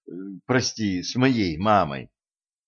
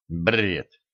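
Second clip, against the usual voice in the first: a scornful low scoff; contemptuous; 4 semitones lower than usual. A narrator's reading. Younger brother scoffs at the dying brother, contemptuous. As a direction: spit the word out with disdain. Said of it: "презрительно отозвался Максет".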